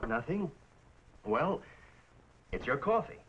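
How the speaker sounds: low-key, downcast reply; subdued and reluctant to say it; glum. Acted. Husband admitting to his wife what's bothering him, glum. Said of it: "Why so glum?".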